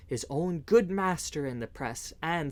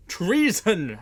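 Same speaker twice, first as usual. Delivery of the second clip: loud shocked shout; loud cry; 5 semitones higher, 8 dB louder than usual. A narrator's reading. Sheriff shouts the alarm to his men, loud cry. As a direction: bellow out the alarm. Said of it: "cried the sheriff in a loud voice".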